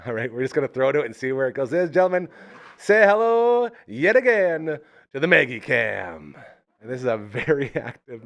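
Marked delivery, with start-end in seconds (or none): 1.7-6.4 announcer voice. Acted. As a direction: present it like a big reveal. Announcing the dog cam.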